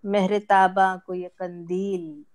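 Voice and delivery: mushaira-style poetry reading; ghazal recitation. Acted. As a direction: recite each half-line deliberately, pausing before the refrain.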